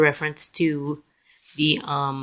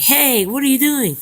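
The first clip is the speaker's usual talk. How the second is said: high-pitched mock cry of protest; mock scream; 8 semitones higher, 4 dB louder than usual. April screaming at her captors, high mock yell. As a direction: imitate April calling out in alarm, higher. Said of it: "April screaming, like".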